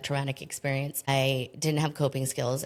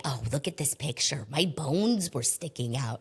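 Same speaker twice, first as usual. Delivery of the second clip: lightly voiced New Jersey accent; New Jersey accent mother. Mother showing off an old photo, light New Jersey accent. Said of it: "she's got a Jersey accent".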